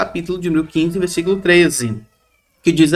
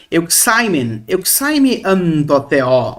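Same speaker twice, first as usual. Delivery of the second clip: Greek recitation; much slower than usual. Shown as a demonstration. Teacher quoting the Greek of Acts, slowly. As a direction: read the Greek slowly, word by word.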